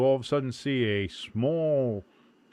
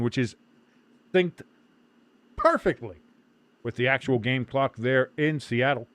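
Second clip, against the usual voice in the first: sports broadcaster; 5 dB louder than usual. Real, not acted. Stream host announcing and commentating.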